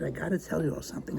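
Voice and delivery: hushed, conspiratorial. Acted. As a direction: lean in and confide quietly. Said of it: "I lowered my voice".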